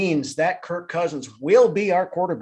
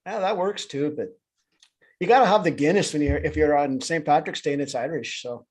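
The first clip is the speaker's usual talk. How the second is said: bad Irish accent. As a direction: put on a corny Irish accent for St Patrick's Day. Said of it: "uh, bad Irish accent".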